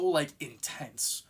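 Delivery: intense stretched slowly for weight; drawn-out intense. Real, not acted. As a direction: linger on the word intense. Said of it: "they're so".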